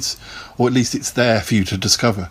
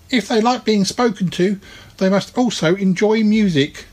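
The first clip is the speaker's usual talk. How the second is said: higher, put-on cartoon character voice; a chirpy little creature making his case; reasoning Twang; 9 semitones higher than usual. Twang reasons with Mister Rabbit about carrots, higher cartoon voice. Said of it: "thought Twang".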